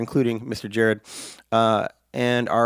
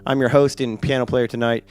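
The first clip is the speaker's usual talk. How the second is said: hoarse, rough from a sinus infection; croaky sick voice, real rasp; raspy sinus voice; 3 dB louder than usual. Real, not acted. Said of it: "If I sound like I've been smoking".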